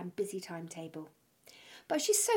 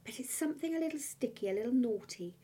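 seductive; 5 dB quieter than usual. Acted. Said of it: "in a slightly seductive way".

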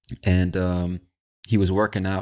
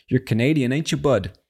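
higher, fuller playful voice; pitched-up playful repeat; 5 semitones higher, 3 dB louder than usual. Pretend. Host repeats his greeting to a Canadian, pitched-up and playful. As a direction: lift the pitch and tease.

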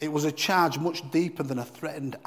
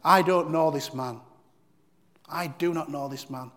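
swearing denial; 4 dB louder than usual. Retold or imitated. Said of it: "he swore to them".

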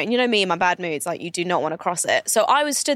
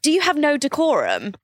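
retold haughty retort; 5 semitones higher than usual. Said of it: "I was like".

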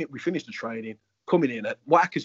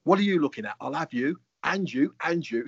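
intimidating; 3 semitones higher than usual. Retold or imitated. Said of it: "that intimidating one on".

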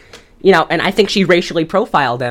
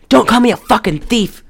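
mild mock yell, higher pitch; retold yell; 5 semitones higher than usual. Retelling the accused man's protest, mildly yelled. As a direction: imitate an indignant yell without full volume. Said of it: "he's yelling at her".

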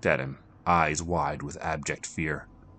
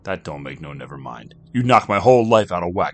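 frustrated; 7 semitones higher, 11 dB louder than usual. Acted. Jack complaining to Kino, frustrated then loud. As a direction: burst out in frustration.

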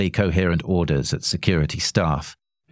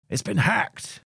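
cried out; 3 dB quieter, slower than usual. A narrator's reading. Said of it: "he cried".

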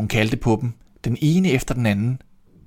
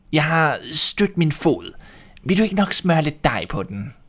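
wolf to baker; 5 semitones higher than usual. A narrator's reading. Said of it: "Ulven løb derhen til en bager og sagde".

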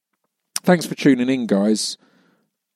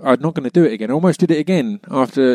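ordinary delivery

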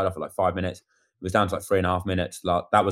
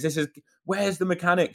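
mimicking the woman; 10 semitones higher than usual. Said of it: "she goes".

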